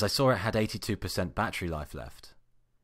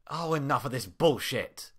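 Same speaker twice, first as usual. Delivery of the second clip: fed-up outburst; 6 semitones higher than usual. Acted. Fed up with sand in shoes.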